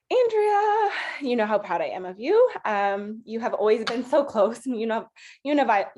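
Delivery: choked up. Real, not acted. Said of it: "I can't even talk".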